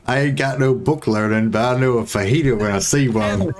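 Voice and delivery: a hint of an old Arkansas farmer, played for laughs; Arkansas farmer accent. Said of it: "farmer accent".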